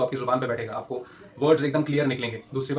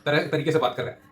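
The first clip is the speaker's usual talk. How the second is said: mock director scolding; 2 semitones higher, 4 dB louder than usual. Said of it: "मेरे को director ने बोल दिया".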